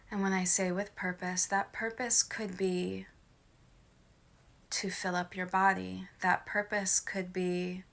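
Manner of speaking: measured meditation delivery, pausing between phrases; guided meditation. Acted. Meditation leader explaining breathing with purpose to listeners, calm guided meditation. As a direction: lead them calmly through breathing with purpose.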